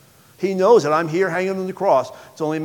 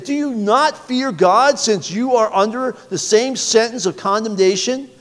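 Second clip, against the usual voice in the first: rebuking; 6 semitones higher than usual. Acted. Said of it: "the other rebuked him".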